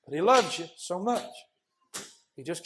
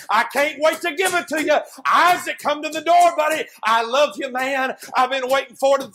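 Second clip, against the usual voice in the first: eager pleading friend; 5 semitones higher, 4 dB louder than usual. Acted. Tucker pleading at the door.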